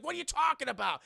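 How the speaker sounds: high, loud incredulous question; mock bafflement. Agent hears virus confession, loud baffled question. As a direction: react in exaggerated confusion.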